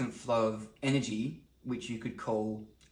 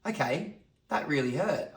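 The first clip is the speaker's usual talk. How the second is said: acted hurt; 4 semitones higher than usual. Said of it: "And I'd go".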